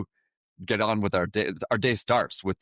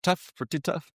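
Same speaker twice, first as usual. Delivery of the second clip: exaggerated Italian accent, higher; 8 semitones higher than usual. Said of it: "I don't know if I should be doing the Italian accent".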